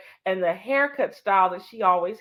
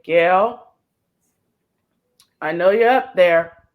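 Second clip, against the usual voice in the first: to the sky; 8 dB louder, slower than usual. Real, not acted. Speaking to the sky for lost friend.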